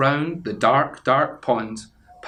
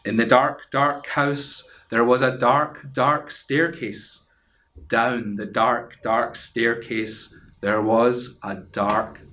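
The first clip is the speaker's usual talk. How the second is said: slow hushed spooky read-aloud; spooky storytelling; slower than usual. A narrator's reading. Storyteller setting a spooky scene for children. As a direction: draw out each dark like a ghost story.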